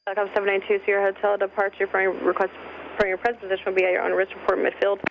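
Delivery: tinny radio voice in headset; over a pilot headset. Real, not acted. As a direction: ATC call heard through headset. Tower call over headset.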